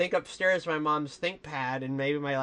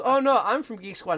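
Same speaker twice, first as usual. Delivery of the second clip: mock scammer voice; 7 semitones higher, 7 dB louder than usual. Scammer claims to be Geek Squad.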